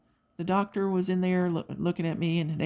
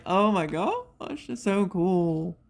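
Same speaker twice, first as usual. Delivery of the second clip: slow gushing delight; 2 semitones higher, much slower than usual. Retold or imitated. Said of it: "I'm like".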